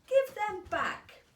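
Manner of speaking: high, loud, slow angry shout; demanding the books back, loud and slow; children yelling. A narrator's reading. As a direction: yell it out as a crowd of kids. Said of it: "the children yelled".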